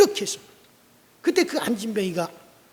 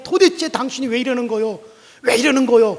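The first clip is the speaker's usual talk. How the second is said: louder indignant question; exasperated protest; 3 semitones higher, 7 dB louder than usual. Acted. Lame man protesting at being dragged, loud. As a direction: push back at him.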